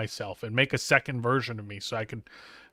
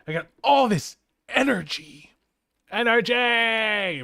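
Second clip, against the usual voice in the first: higher, drawn-out Energy with a stretched cry; hyped caffeine voice; 7 semitones higher, slower than usual. Pretend. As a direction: act buzzing on coffee. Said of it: "Because I drank too much coffee".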